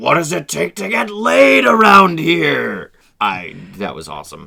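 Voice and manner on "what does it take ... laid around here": loud, rough, high, raw bellowing roar. Reading a quote where Tyler roars to an empty room, imitating Tyler's roar. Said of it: "he just roars to an empty room".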